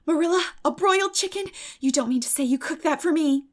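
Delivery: put-on high, loud, gushing girlish delight; delighted Anne. Anne thrilled to find Marilla cooked her supper, high excited girlish voice. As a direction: squeal it out at the broiled chicken.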